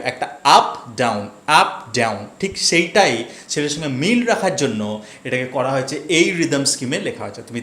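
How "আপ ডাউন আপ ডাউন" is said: rhythmic rise on "আপ", drop on "ডাউন", like waves; sea-wave rhythm. Shown as a demonstration. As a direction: swing "আপ" up, let "ডাউন" fall, twice over. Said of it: "সেই সি ওয়েভের রিদমটা কী হয়". (ঢেউয়ের ছন্দে "আপ" উঠিয়ে, "ডাউন" নামিয়ে বলা)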